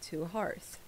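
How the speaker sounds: gentle, measured welcome; slightly softened, courteous greeting; kindly. Acted. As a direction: welcome a guest gently, with pauses. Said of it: "she smiles at you very kindly".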